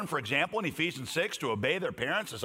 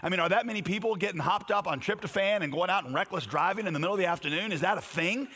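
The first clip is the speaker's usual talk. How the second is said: retold frustration; 3 semitones higher than usual. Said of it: "I said in frustration to my wife".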